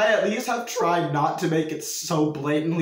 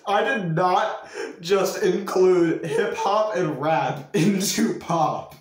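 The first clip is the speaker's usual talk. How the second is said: incredulous laughing; 4 semitones higher, 4 dB louder, slower than usual. Real, not acted. Incredulous at own old claim.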